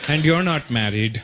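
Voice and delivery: low, slow, deliberate mom voice; comic Indian mom. Retold or imitated. Mom nudging her unmarried son Russell toward marriage, comic Indian mom. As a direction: imitate your mom, low and measured. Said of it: "my mom goes".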